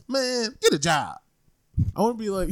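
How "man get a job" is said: put-on slow, higher gruff old dad voice; slow it down like a grumpy father; mock old man scolding; imitating dad. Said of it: "he says".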